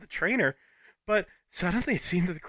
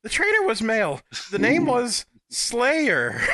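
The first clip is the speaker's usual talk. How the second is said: clumsy British accent; half-hearted British accent try; switching accents clumsily; 3 dB louder, slower than usual. Shown as a demonstration. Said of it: "let me switch my British accent".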